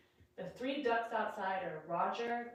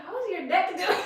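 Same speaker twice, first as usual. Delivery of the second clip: mock concerned question; 9 semitones higher, 9 dB louder than usual. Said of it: "I'm like".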